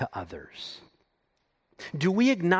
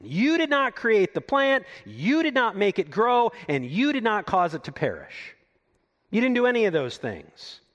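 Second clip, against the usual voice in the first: higher, forceful rebuke of Jonah; God sternly correcting Jonah, pitched up and firm; 5 semitones higher than usual. Retold or imitated. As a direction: call him out, firm and rising. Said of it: "the Lord is calling Jonah out".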